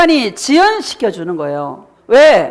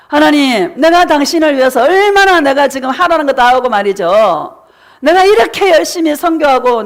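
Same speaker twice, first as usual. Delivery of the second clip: complaining. Retold or imitated. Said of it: "원망하고 불평하다가".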